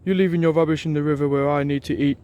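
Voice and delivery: loud, projected acted scolding; waking someone up. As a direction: call out sharply to rouse a sleeper. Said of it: "he's gonna wake up Freddy".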